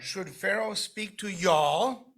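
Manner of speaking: slow reading that leans on "y'all" as a plural; slow stressed y'all. Shown as a demonstration. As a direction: draw out "y'all" to show it means all of you. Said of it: "Because we don't have a y'all".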